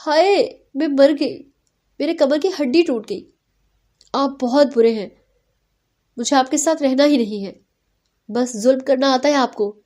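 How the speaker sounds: hammed-up cry that her back is broken. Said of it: "چلا کر کہنے لگی". (چلا کر، ڈرامائی انداز میں درد کی دہائی)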